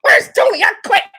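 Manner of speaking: high, loud, near tears; upset outburst. Retold or imitated. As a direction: cry out that she quits. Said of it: "And she's".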